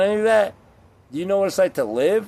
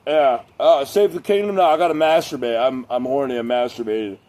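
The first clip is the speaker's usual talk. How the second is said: Aragorn. Pretend. Mocking fantasy hero begging off the quest, lightly hammed-up. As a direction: send up a hero excusing himself. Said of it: "You think Aragorn from Lord of the Rings".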